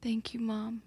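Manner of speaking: whisper. Acted. Player whispers.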